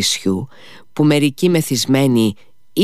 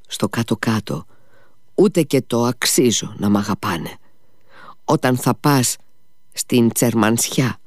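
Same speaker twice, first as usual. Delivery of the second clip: coaxing, sly smile heard in the voice; with a long sly smile. Acted. Drunk father sweet-talks Ivan with a long, sly smile. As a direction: sweet-talk him with a crafty grin. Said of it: "με ένα μακρύ και πονηρό χαμόγελο".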